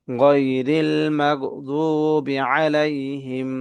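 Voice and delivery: very slow, measured recitation with long vowels; Quran recitation. Shown as a demonstration. Teacher reciting the whole verse for learners to follow, slow and drawn out. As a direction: recite slowly, holding the last syllable.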